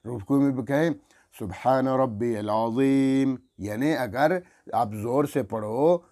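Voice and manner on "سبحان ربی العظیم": slow, drawn-out "سبحان ربی العظیم"; slow tasbih. Shown as a demonstration. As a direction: say it calmly and stretched. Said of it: "پھر آرام سے کریں". (آہستہ ٹھہر کر تسبیح)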